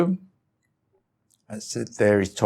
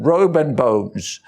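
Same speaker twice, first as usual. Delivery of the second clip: chuckling through the words, slowed; laughing; 3 dB louder, slower than usual. Real, not acted. Monk laughing about being skin and bones. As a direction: laugh it out at yourself. Laughing at own sorry state.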